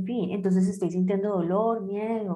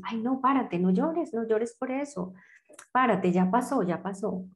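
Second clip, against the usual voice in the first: voz más aguda de adulta que quita importancia; abuelita que consuela; 3 semitones higher than usual. Retold or imitated. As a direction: imitar a la abuela que dice ya pasó, más agudo. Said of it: "a veces dice". (imitando a la abuela que minimiza el dolor, voz más aguda)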